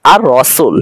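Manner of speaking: "আর রসুল" with no l, the r doubled; silent lam. Shown as a demonstration. Teacher giving an example of written but unspoken lam, doubled r. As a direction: skip the l and hold the r across "আর রসুল". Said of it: "আমরা লামের উচ্চারণ করি না".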